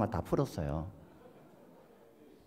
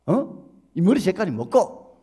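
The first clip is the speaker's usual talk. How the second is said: louder, rising scold, sharper the second time; stern rebuke; 5 semitones higher, 6 dB louder, slower than usual. Retold or imitated. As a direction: scold the young man like a headmaster. Elder scolds the dyed youth. (교장선생님처럼 호통치며 다그치기)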